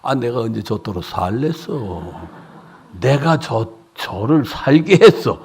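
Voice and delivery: ordinary talk, nothing marked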